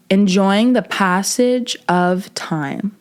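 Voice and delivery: slow, measured quote with pauses; reflective quote. Shown as a demonstration. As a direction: let each part of the quote settle. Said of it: "I'm gonna say it again".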